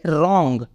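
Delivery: रॉन्ग with the W silent, starting on R. Shown as a demonstration. Teacher showing how wrong is said, रॉन्ग with silent W. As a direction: say रॉन्ग beginning straight on the R sound. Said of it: "क्या बोलेंगे?".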